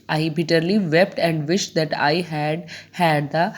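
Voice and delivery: slow, measured verse reading; deliberate classroom recitation to the closing line; poem recitation. Acted. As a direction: read slowly, pausing between the final phrases. Reads the poem aloud.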